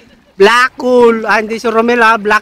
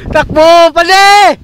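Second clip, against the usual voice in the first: while running; 8 semitones higher than usual. Real, not acted. Fleeing Shukoy, calling out.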